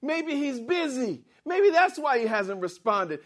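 high, teasing jeer; mocking the rival prophets' god; mocking taunt. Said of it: "he was mocking the other prophets".

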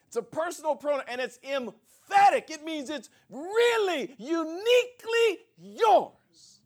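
full-force preaching. Acted. Pastor preaching to his congregation, high and loud.

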